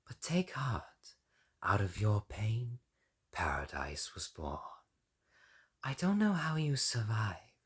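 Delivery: hushed, consoling murmur; soothing whisper. Acted. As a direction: comfort him like a priestess. Soothing leader.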